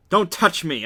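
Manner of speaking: high, loud, forceful warning; angry hiss. A narrator's reading. Fighting out of his grasp, hissing in anger. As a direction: push him away with a sharp, loud order. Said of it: "I hiss".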